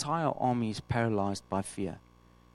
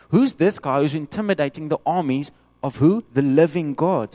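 louder, slowing on the living God; bold proclamation; 2 semitones higher, 6 dB louder than usual. Retold or imitated. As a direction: proclaim it with defiant faith. David answers the soldiers.

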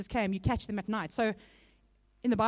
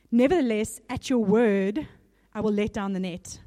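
steady, louder Bible reading to the congregation; scripture reading; 3 dB louder than usual. Acted. Preacher reading Luke to the church, louder scripture reading. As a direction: read the passage out with weight, lifting Master and Nevertheless. Reads Simon's answer from Luke.

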